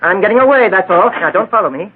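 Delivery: a cornered man bluffing his way out; panicked threat. Acted. Suspect warns the district attorney off with his gun, panicked.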